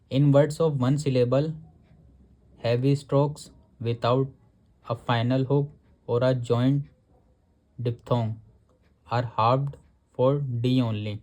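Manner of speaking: नियम को बहुत धीरे, शब्द-शब्द पढ़ना; किताब से नियम धीरे-धीरे पढ़कर सुनाना; धीमा पाठ. Acted. Reads rule from textbook slowly. (किताब का नियम धीमी आवाज़ में पढ़ना)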